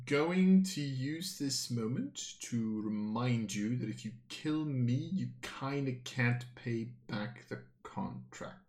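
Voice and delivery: measured reminder. Acted. Villain answers the threat.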